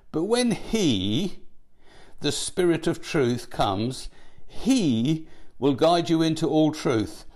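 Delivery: every "he" leaned on and slowed, the rest read plainly; stress on he. Shown as a demonstration. Preacher reading John sixteen to his congregation, stressing every "he". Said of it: "I will emphasize a particular word".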